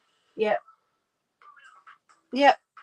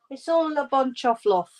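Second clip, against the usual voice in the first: higher-pitched, not quite Scottish accent; attempted Scottish accent; 5 semitones higher than usual. Shown as a demonstration. Streamer attempting the phrase for Ange, shaky-aim Scottish accent. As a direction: have a rough go at a Scottish accent. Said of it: "Can't say it in a Scottish accent".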